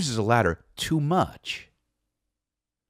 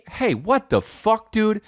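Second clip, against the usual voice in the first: alarmed; 9 semitones higher, slower than usual. Acted. Seeing wife crawling.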